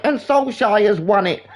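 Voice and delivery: high, drawn-out match call; imitating an excited football commentary line, slowed for effect; imitated commentator. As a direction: call it like a commentator at the winning goal. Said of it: "And they're like".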